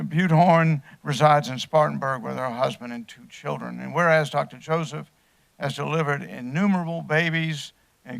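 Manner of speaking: measured, formal read of a council proclamation. Acted. Chairman reading the proclamation to the council, formal.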